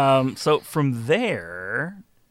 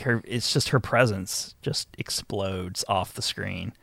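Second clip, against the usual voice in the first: mock gushing praise; 2 semitones lower than usual. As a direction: gush over her as a joke, in a breathy hush. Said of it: "I'm teasing".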